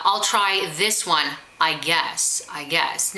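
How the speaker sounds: slow, doubtful trailing hedge; unsure hedging. Shown as a demonstration. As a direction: sound like you're not sure of your choice. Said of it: "then they say something that's like".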